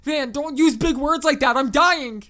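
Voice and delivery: loud, high hysterical outburst; panicked yelling. A narrator's reading. Drugged young caller interrupts the operator's questions, hysterical panic. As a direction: wail at the operator in overblown panic.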